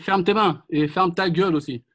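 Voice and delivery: loud teasing shout; joking shout. Real, not acted. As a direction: tease him with a shout. Teasing Médric mid-drill.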